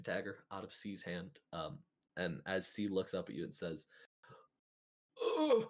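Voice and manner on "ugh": short, loud, high groan; pained groan. Acted. Dying villain looks up at adventurers, pained groan.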